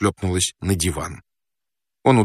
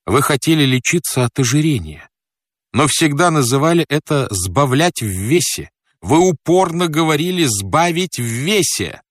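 raised-pitch, insistent reproach, building; exclaiming; 6 semitones higher than usual. Acted. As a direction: drive the accusation home with rising pitch. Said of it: "воскликнул я". (восклицая с упрёком, повышенным тоном)

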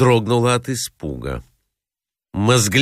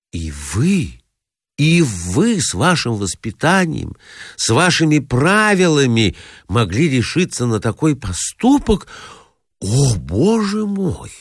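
higher, reproachful lament; pained shock; 3 semitones higher than usual. Acted. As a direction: play the wounded lady. Lady feigns shocked reproach. (высокое, укоризненное сокрушение)

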